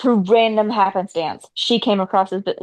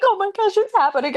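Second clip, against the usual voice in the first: higher, giddy mock gasp of excitement; lightly acted amazement; excited disbelief; 9 semitones higher, faster than usual. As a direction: imitate a thrilled crowd of coworkers. Retold office reacting in excitement.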